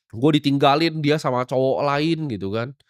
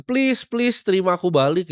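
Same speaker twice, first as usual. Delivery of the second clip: higher-pitched pleading, imitating a dumped boyfriend; mock begging; 5 semitones higher than usual. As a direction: beg mockingly to be taken back. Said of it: "Lu nggak perlu ngemis". (pura-pura memohon dengan nada tinggi)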